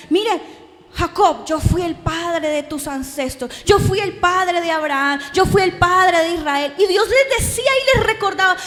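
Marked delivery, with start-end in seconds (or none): 0.1-6.7 a hint of a louder, solemn God. God reminds Jacob of his ancestors, lightly solemn. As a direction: announce it like God speaking. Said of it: "Iba y le decía".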